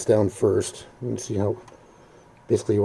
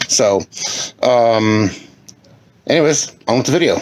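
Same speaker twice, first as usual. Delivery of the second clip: upbeat; 4 dB louder than usual. Real, not acted. Later re-recorded intro, louder, brighter.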